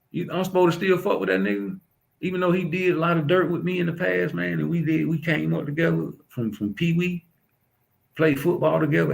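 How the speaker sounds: high indignation. Real, not acted. Indignant rant about a former friend.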